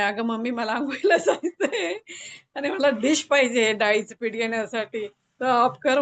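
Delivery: lightly imitated child calling mummy; son's voice. Mother retelling son's interruption to the group, lightly voiced child. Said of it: "तो म्हणे".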